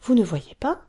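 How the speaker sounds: put-on a small girl explaining her secret; little girl Taffy. Taffy exclaims.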